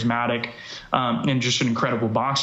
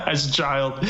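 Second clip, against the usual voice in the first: laughing. Real, not acted. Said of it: "You can't say that without laughing".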